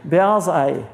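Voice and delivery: light laugh through "Beyaz ay". Real, not acted. Amused at his own Turkish for white moon, laughing. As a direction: chuckle the Turkish words out.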